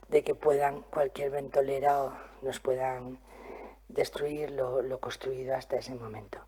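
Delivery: muffled speech behind a face mask; talking through a mask. Real, not acted. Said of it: "me cuesta muchísimo hablar con la mascarilla".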